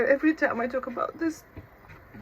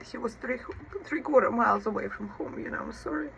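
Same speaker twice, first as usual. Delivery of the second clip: voice catching; 2 semitones higher than usual. Real, not acted. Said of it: "please forgive me, it's emotional".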